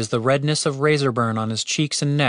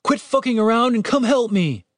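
high-pitched, impatient yell; pained shout; 11 semitones higher than usual. A narrator's reading. Wounded guard yelling at the cleric, impatient shout. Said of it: "shouted the wounded guard".

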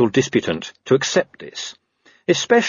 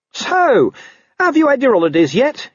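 very high, tight squeak; terrified little squeak of small talk; 4 dB louder than usual. A narrator's reading. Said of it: "he squeaked".

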